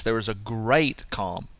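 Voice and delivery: measured repeat with weight on "great"; stress on great. Shown as a demonstration. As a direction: lean on the word "great". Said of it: "Don't you like that emphasis?".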